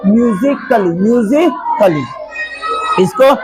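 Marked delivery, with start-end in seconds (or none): 0.1-2.0 "म्यूजिकली" ending in short "klee"; silent A. Shown as a demonstration. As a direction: model "म्यूजिकली" for repeating, A left silent. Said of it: "तो क्या पढ़ेंगे इसको?". ("म्यूजिकली" में ए बिना बोले)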